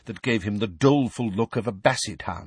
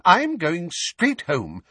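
put-on high, fussy old woman; flustered old neighbour, high and fretful; 9 semitones higher, much slower than usual. A narrator's reading. Mrs Figg voiced.

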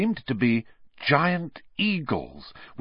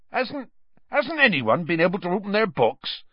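crestfallen; 9 semitones higher than usual. A narrator's reading. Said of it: "looking crestfallen".

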